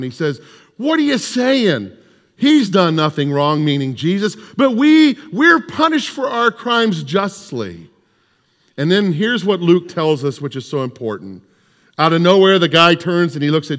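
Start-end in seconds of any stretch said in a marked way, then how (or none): 0.8-7.9 scolding. Acted. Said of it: "he scolds the one".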